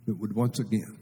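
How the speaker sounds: soft, hushed prayer to the Lord; murmured heartfelt prayer; quiet prayer. Shown as a demonstration.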